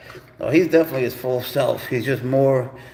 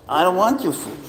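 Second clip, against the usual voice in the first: higher, pleading singsong to the cat; mock pleading; 5 semitones higher than usual. Owner coaxing his cat to eat, high pleading tone. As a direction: coax the cat with a raised pleading voice.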